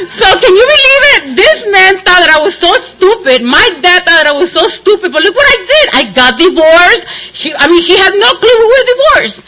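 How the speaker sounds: laughing. Real, not acted. Gloating, laughing through story.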